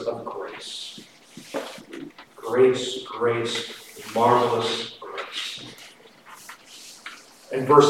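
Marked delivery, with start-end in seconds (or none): 2.4-5.6 reverent hush. Acted. Quoting hymn words softly, reverently.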